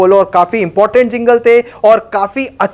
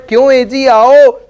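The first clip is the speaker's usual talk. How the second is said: louder coaxing call; 3 semitones higher, 4 dB louder than usual. Acted. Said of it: "ये बहुत प्यार से बुलाते हैं".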